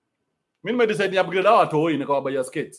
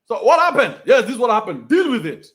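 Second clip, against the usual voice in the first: higher, louder, stern dad lecturing; tough dad; 4 semitones higher, 5 dB louder than usual. Acted. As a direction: bark it at the crying kid. Tough father to daughter.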